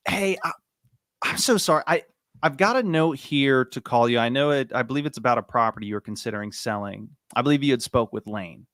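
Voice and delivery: hesitant apologetic demo call; fumbling caller. Shown as a demonstration. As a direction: sound a little lost on purpose so it feels human. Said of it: "having to sound like you're fumbling through it".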